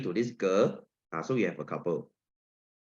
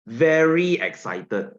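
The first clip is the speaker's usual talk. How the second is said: louder, stretched and slower; excited; 4 semitones higher, 5 dB louder, slower than usual. Shown as a demonstration. Teacher contrasting excitement for the class, slow and excited. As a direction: sell it with real excitement. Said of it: "See the difference?".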